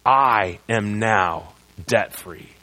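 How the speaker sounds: slow, low "I am now debt-free"; solemn confession of faith; slow solemn declaration. Shown as a demonstration. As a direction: declare it slowly from the heart.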